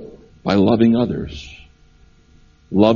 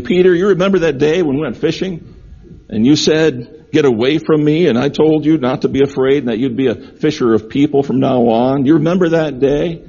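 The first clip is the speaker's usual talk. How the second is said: lightly voiced reminiscence, higher pitched and eager to prompt a memory; Jesus reminiscing; 5 semitones higher than usual. Jesus reminding Peter of that fishing day, lightly acted, higher. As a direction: remind an old friend, pitch lifted a little. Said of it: "as if Jesus is saying".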